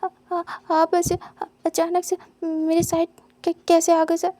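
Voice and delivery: scared stutter. Acted. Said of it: "विंग डरते हुए कहता".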